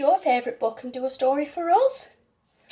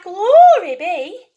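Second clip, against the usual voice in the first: loud, slow cry of dismay; exclaiming; 4 semitones higher, 7 dB louder, much slower than usual. Acted. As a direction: throw up your hands and cry out. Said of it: "The little old lady cried".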